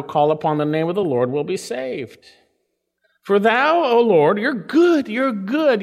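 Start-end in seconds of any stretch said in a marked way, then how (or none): 3.2-5.8 louder, higher, preaching at full force; fervent proclamation. Acted. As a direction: ring it out as a declaration.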